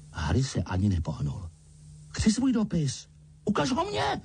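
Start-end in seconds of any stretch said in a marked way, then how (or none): 2.1-4.2 demanding. A narrator's reading. Dudley demands the letter from his father, high whine. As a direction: insist like a spoiled child. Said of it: "dožadoval se Dudley".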